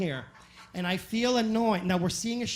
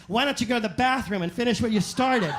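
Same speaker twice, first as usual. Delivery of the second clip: snide loud jab; 3 semitones higher, 4 dB louder than usual. Retold or imitated.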